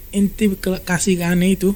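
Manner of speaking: lightly acted serious warning; serious threat. Ali warns the woman to hand over the letter, retold serious threat. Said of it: "Sayyidina Ali ngomong serius".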